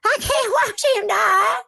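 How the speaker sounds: high, loud mock Southern Belle; hammed-up Southern Belle whine. Teasing her cohost with a Southern Belle voice. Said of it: "did she not sound a little Southern Belle there".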